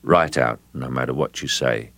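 low, level, sinking delivery; flattened voice. Shown as a demonstration. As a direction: flatten the voice right out. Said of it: "just flattening the voice out".

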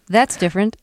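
flat unemotional delivery; no emotion. Shown as a demonstration. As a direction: say it with no feeling at all. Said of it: "didn't have too much emotion in your voice".

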